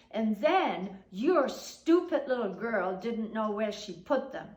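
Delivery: a touch of an angry neighbour's rant; accusing. Retold or imitated. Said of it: "verbal fight".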